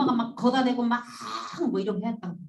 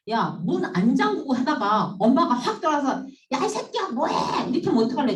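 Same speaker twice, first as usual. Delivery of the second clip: hammed-up angry mother; mock angry mom; 3 semitones higher, 4 dB louder than usual. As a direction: burst in like a scolding mom. Teacher voicing mom bursting in.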